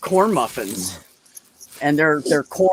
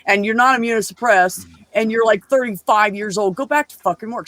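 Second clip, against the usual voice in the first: higher-pitched retold telling-off; exasperated mock lecture, pitched up; pissed-off boss, imitated; 5 semitones higher than usual. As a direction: scold like a fed-up boss, retelling it. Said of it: "So she's pissed about it".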